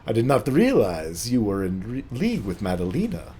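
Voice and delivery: put-on French accent, swooping in pitch; French-accented in-character questioning. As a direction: play a teasing French lady. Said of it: "get in my French accent".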